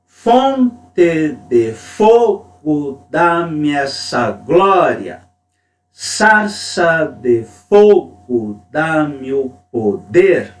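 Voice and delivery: very slow, the first syllable of each foot hit hard; rhythmic poem recitation. Shown as a demonstration. Teacher reading Mário Faustino to class, falling rhythm marked. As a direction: incant it, "Fonte", "Sarça" and "Cinza" struck hard on the first syllable. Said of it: "Já um outro exemplo".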